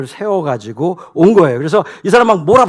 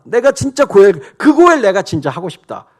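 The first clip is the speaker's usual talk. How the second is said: earnest longing; 5 semitones higher, 6 dB louder than usual. Acted. Boaz voiced, earnest longing.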